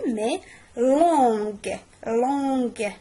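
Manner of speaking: "لونغ" ends with a hard g. Shown as a demonstration. Teacher shows the class the right hard ending. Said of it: "غاديش نقول لونغ".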